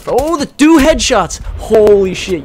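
high, loud, drawn-out cheer; excited shout. Real, not acted. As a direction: whoop over a great shot. Celebrates two headshots.

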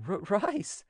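high, stammered plea, overcome; broken voice. A narrator's reading. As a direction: break the first word, as if choked by feeling. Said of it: "she said in a broken voice".

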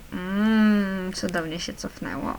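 ordinary delivery

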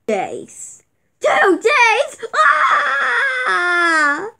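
wailing in dismay; crying wail. Acted. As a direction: howl it out like a crushed kid. Kids wail at two days.

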